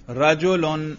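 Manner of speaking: رجل read with an -un ending; رجل pronounced "rajulun"; with case ending. Shown as a demonstration. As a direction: sound the final -un on رجل. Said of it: "اعراب کے ساتھ پڑھو".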